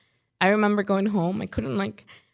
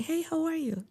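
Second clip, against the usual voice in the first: cheery greeting; 8 semitones higher, 6 dB quieter than usual. Retold or imitated. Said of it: "I'll go check up on them and be like".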